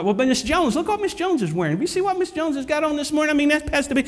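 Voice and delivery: high-pitched mock busybody; church gossip. Mimicking gossip about clothes.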